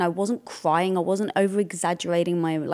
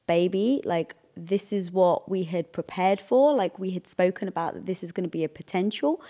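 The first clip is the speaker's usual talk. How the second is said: very calm. Retold or imitated. Wife quoting husband's reminder of their agreement, calmly. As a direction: imitate a partner calmly reminding. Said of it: "when you very calmly said".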